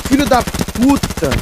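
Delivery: slow, high, stretched swear; drawn-out curse. Real, not acted. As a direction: drag out each word in frustration. Dies in game, curses.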